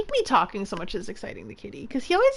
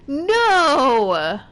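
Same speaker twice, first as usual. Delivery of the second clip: a sharp, loud, higher "No!"; sudden shout; 4 semitones higher, 6 dB louder than usual. Real, not acted. Gamer yelling at a boss hit, loud protest. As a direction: yelp it in protest.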